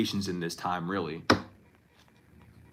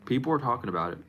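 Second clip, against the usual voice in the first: softer, hushed and ominous; ominous warning; 5 dB quieter, much faster than usual. Shown as a demonstration. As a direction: drop the voice like a warning. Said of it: "And I said it that way. It's like, it's a warning".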